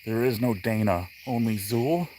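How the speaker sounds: possessed demon voice. Pretend. Spoof possessed voice answering.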